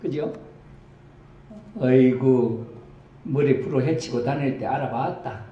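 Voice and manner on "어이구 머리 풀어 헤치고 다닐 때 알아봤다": knowing Gyeongsang granny remark, a touch louder; lightly voiced country old woman; Gyeongsang grandma. Grandma grumbles she knew from his loose hair, in Gyeongsang dialect. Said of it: "경상도 버전으로".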